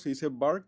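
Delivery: bark, said like Spanish barco with a rolled r. Shown as a demonstration. Teacher showing the class how bark sounds, like barco. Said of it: "como barco".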